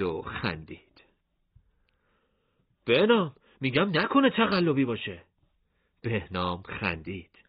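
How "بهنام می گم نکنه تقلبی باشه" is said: put-on boyish Hashem voice.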